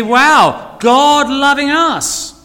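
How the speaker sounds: preacher modelling delight for the congregation; enthusiastic wow. Shown as a demonstration. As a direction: show them the wonder, draw it out. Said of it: "I'd love us to get enthusiastic".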